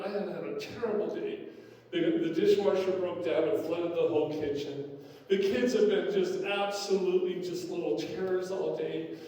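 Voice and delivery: a tearful wife unloading her terrible day; upset wife. Acted. Wife at the door complaining to husband, mildly exasperated.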